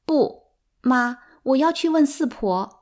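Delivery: 更高更响地坚持; 孩子不服气地坚持. A narrator's reading. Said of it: "我坚持说". (提高嗓门坚持)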